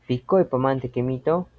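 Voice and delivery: "Pikoi pamanante kemito" with the voice rising on the last O; question tune on O. Shown as a demonstration. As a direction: ask "Pikoi pamanante kemito", lifting the end of "kemito". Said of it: "una fuerza de voz en la O". (tono de pregunta, subiendo en la O de "kemito")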